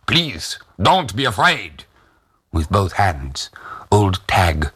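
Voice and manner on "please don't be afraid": higher-pitched stranger with a bad German accent. A narrator's reading. Soldier at the window calms the family, bad German accent. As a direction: reassure in clumsy German-accented speech. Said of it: "said in bad German".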